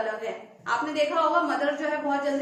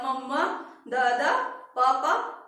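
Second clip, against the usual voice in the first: imitating baby words; 4 dB louder, much slower than usual. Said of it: "वो फौरन बोलने लगेगा".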